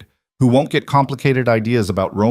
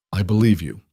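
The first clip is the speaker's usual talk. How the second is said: "believe" stressed, falling, calm and level; "I believe you" said flatly and firmly; calm, matter-of-fact. A narrator's reading. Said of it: "Dante said it calmly, matter-of-factly".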